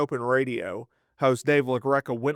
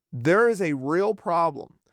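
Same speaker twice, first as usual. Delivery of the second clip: normal talking voice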